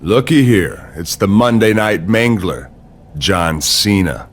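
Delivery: low, slow gloating threat; menacing taunt. Acted. Rival mocking Cena's hopes before WrestleMania, menacing taunt.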